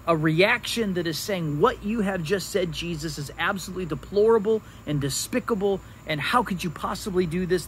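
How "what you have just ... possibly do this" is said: mildly indignant, rapid-fire rebuke; imitated outrage. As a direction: voice mock outrage in a quick rush. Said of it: "This is an act of outrage".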